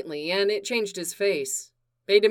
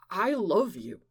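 said simply; 3 dB quieter than usual. Acted. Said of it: "Clark said simply".

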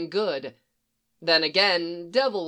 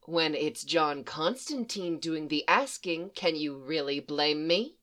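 hostile; 4 semitones lower, 6 dB quieter than usual. A narrator's reading. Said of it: "She leaned in a little".

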